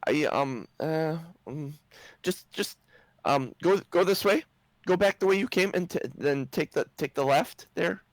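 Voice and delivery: high-pitched, hesitant gnome giving directions; a nervous gnome fumbling for words, pitched high; flustered gnome. Acted.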